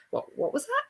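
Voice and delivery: high, rising confused question; bewildered repeat request, slowing down; puzzled asking. Retold or imitated. Retells not understanding Americans.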